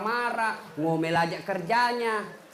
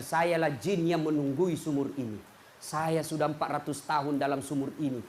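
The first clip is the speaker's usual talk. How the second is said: lower, heavier jinn voice; 5 semitones lower than usual. Acted. A lightly lowered jinn complaining from the well. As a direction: speak up from deep in the well like an old jinn.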